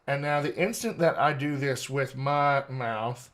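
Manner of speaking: lightly demonstrated Texas accent. Shown as a demonstration. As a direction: let a Texas twang come out as you explain. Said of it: "that Texas accent just kinda comes out".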